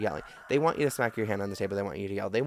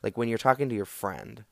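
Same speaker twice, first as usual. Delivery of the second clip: calm mirroring. Shown as a demonstration. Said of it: "and you just be like".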